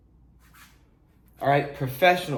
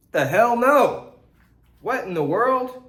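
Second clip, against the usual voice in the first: mock outraged refusal; 7 semitones higher, 4 dB louder than usual. Seller rejecting needy caller.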